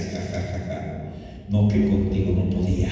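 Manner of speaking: imitated taunting laugh; mocking voice. The devil to a fallen believer, lightly mocking. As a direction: gloat with a spoken ha-ha, lightly acted. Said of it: "oí una voz burlona que me decía".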